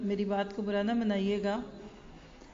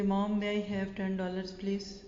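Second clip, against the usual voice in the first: slow, timid little voice asking for money; a hint of a shy child, drawn out slowly; child asking timidly; much slower than usual. Son asks tired mother for ten dollars, slow and timid.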